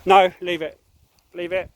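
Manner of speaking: loud sharp no; loud stern no to the dog; yelling no. Real, not acted. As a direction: snap a loud no. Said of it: "me yelling and shouting".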